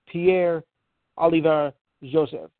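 names said with a light French accent; lightly French-accented name read. Shown as a demonstration. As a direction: give the name a hint of French flair. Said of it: "Notice I'm doing it with a French accent".

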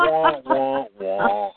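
high mock baby wail; fake crying. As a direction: whine it like a crybaby. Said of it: "Can anybody say".

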